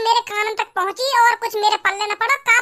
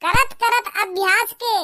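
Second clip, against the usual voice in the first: recited proverb; slower than usual. Acted. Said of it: "dialogue मरवा लो बस".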